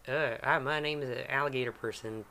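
lightly played southern greeting; southern accent. Game master tests a character introduction, southern accent. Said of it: "get in my southern accent".

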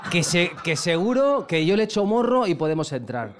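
slow, laughing retold line; laughing quote. Retelling the manager's Pachá plan, laughing. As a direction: laugh through the friend's plan. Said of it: "Vamos a Pachá".

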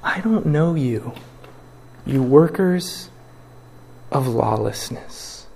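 slow, grave rejection; stern judging Lord. Pretend. Jesus rejecting lawless workers, slow and grave. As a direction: pronounce the verdict slowly. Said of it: "And he will say".

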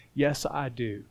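humble yes. Acted. Heart touched by weakness answering the Spirit, humble yes. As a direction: answer quietly, owning the need.

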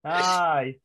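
slow menacing Glasgow hard man; Glasgow street accent. Pretend. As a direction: threaten like a Glasgow street brawler. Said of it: "more Scottish people being legends".

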